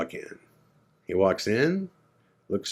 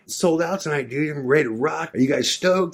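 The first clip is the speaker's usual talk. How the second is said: hyped rocker; 4 semitones higher than usual. Retold or imitated. A rock drummer hyping the band.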